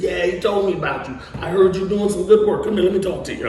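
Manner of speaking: acted-out hearty taking charge; Denzel Washington. Denzel Washington calling a young actor over like a dad, fatherly. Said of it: "talked to me like he was my dad".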